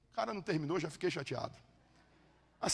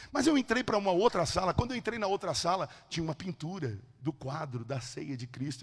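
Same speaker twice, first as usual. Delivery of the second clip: ordinary talk, nothing marked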